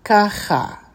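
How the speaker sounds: "Ka, cha" run closer together as one word. Shown as a demonstration. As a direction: join "Ka, cha" with a throaty kh. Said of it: "just a little bit more quickly".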